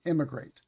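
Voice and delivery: "immigrate" with the first vowel pushed toward a clear E; "immigrate" over-pronounced for contrast; exaggerated E spelling. Shown as a demonstration. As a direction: lean on the front of "immigrate" to show the E spelling. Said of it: "we'll often say it".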